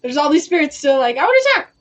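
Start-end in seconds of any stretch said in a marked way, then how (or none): 1.2-1.7 spirit voice. Pretend. Spirits crowding the medium.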